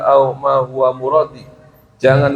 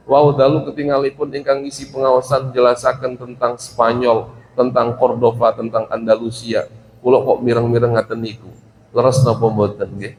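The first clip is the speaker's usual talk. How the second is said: mildly lowered, deferential Javanese reply; polite pupil's answer; 2 semitones lower than usual. Shown as a demonstration. Pupil reports to teacher what was taught, politely. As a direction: answer humbly, as if gently checking. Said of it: "menjawab dengan bahasa yang halus".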